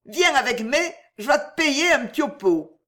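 high coaxing plea; high-pitched tipsy invitation; wheedling drunk woman. A narrator's reading. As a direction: coax a friend along for a drink. Drunk woman coaxes her friend.

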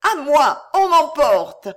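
loud, high alarmed shouts; crying for help. A narrator's reading. Girl being carried off calls the guard, crying for help. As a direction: scream out for rescue. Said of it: "cria Claude".

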